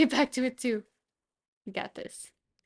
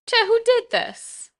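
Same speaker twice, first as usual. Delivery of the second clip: high, loud playful accusation; mock outraged shout; 13 semitones higher, 6 dB louder than usual. Streamer yelling at the cat about the painting, mock outrage. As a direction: demand an answer from the culprit, half-joking.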